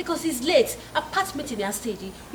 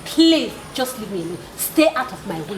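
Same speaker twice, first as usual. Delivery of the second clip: angry brush-off; 4 dB louder than usual. Acted. Woman rejecting suitor angrily.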